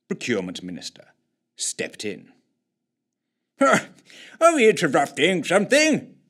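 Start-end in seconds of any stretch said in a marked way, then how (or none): 3.6-6.2 higher, louder polite gentleman; politely ask, a bit raised; polite inquiry. A narrator's reading. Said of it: "inquired Coward politely".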